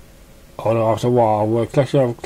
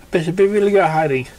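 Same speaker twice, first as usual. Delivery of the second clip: pony character voice; 5 semitones higher, much faster than usual. Acted. Character reply.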